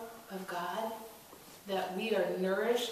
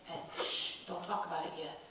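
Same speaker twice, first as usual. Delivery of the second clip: softer, hushed; hushing; 4 semitones lower, 7 dB quieter than usual. Acted. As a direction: shush them. Jesus hushing disciples.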